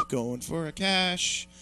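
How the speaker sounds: slow, drawn-out mock militia threat; mock gun nut. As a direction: drag out each word like a crazed gun nut. Mock gun-nut vow to kill cops.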